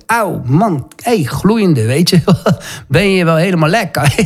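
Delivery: indignant mock reaction, breaking into a laugh; mock outrage. Preacher playing someone hit by a stone, mock-indignant. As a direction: play the affronted victim, amused.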